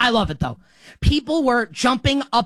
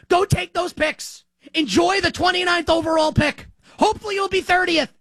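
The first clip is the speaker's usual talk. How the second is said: taunting; 4 semitones higher than usual. Real, not acted. Taunting Brooklyn over the picks.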